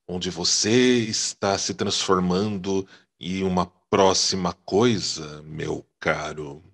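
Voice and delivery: mystical seer voice; hint of an otherworldly oracle; Oráculo voice. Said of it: "uma mensagem com a voz do Oráculo aí".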